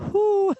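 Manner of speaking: high, loud laugh and "whew"; high, loud exhale, fending off tears; teary laughing whew. Real, not acted. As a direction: laugh off the urge to cry with a big whew. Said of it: "I might cry again".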